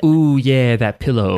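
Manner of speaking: drowsy, contented murmur; sleepy voice. Retold or imitated. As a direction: sigh into the pillow. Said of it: "sleepy is when you're like".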